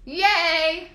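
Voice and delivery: high, loud, awkward cheer; an awkward little cheer; real but awkward yay of relief; weird yay. Real, not acted. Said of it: "that was a weird yay".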